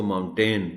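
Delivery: माउंटेन ending in a long "tain"; untaught child's mispronunciation. Retold or imitated. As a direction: read माउंटेन as spelt, moun-TAIN. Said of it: "अगर किसी बच्चे को नहीं बताया".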